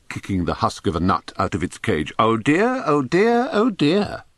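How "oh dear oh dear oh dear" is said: high-pitched parrot repetitions, rising. A narrator's reading. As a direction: chirp it over and over like a parrot. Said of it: "one of the parrots remarked".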